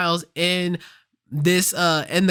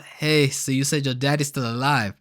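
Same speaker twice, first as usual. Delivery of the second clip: put-on lightly accented quote of the Prowler; accent slipping out; 3 semitones lower than usual. Retelling the Prowler's line to Miles, slight accent slipping out. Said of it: "sorry for the accent".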